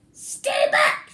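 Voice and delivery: loud warning shout. Acted. Bruce shouting at Cyril to stay back. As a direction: bark it at him. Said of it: "shouted Bruce".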